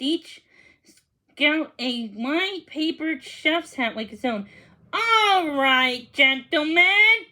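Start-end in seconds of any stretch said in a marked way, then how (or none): 4.9-7.3 louder, stretched call to attention; rally the troops. Acted. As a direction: cook calling the scouts to their stations. Danny calling scouts to stations.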